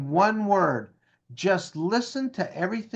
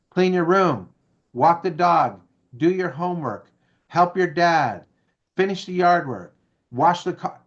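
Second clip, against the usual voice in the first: bossy parent; 3 dB louder than usual. Retold or imitated. Parent barking instructions at kids.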